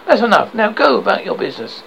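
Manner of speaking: loud, high, curt rebuke; losing his temper. Acted. Policeman losing patience with David, loud rebuke. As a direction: snap at them to clear off. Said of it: "losing his temper".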